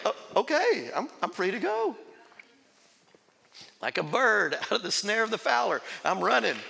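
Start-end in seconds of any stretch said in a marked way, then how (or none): 0.1-2.0 stunned acceptance. Retold or imitated. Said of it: "But I'm like".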